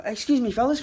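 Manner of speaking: put-on high-pitched, courteous old fellow; polite old man. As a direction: imitate a polite old man trying to get attention. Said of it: "so polite spoken".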